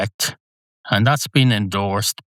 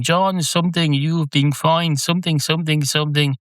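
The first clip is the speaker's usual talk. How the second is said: automatic police voice; 7 semitones higher than usual. Retold or imitated. Imitating Nigel Hawthorne's police announcer issuing a fine, high and robotic. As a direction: read it like a cold public address fine. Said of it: "the voice of the automatic police".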